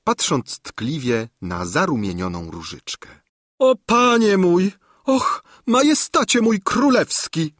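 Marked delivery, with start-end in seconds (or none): 3.6-7.5 put-on high, loud simpering old woman; gushing exclamation. A narrator's reading. Old governess gushes at the king, high and loud. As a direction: cry out like a lovesick old hag. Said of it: "wykrzyknęła Gburja Furia".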